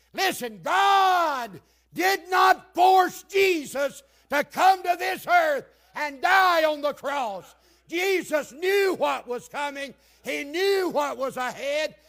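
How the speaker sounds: high, loud, stretched-out phrases; full-force preaching. Real, not acted. Preacher proclaiming Jesus came willingly to die, full-force preaching. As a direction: hammer each statement home in a preacher's shout.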